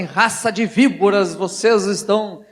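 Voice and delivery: hammed-up condemnation of sinners; mock condemnation. Speaker shows how Paul did not address them, mock denunciation. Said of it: "ele não chega lá assim".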